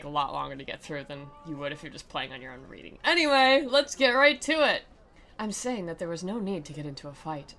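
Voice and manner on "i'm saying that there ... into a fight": her quiet voice. Acted. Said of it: "that's kind of the voice she has".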